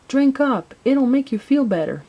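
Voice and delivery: lightly voiced helpful child; encouraging. A narrator's reading. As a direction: coax a patient to drink up. Boy urging sick Santa to drink.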